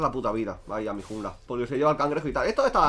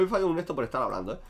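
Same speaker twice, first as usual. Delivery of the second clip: normal talking voice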